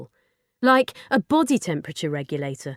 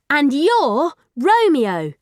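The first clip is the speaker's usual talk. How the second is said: very slow, louder and higher; slow teaching; 8 semitones higher, 6 dB louder, much slower than usual. Acted. Girl teaching the robot its name, very slow. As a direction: spell it out gently for the robot.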